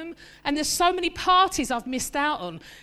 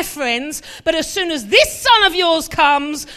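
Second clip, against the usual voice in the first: rising, louder indignant grievance; resentful complaint; 7 dB louder than usual. Retold or imitated. Elder brother complaining to his father, getting louder. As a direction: build the grievance to a loud peak. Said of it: "He said to his father".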